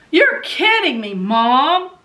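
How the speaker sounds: imitating a teen's high, loud protest; mortified disbelief. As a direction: play the horrified daughter, voice jumping up. Daughter mortified by mom's news.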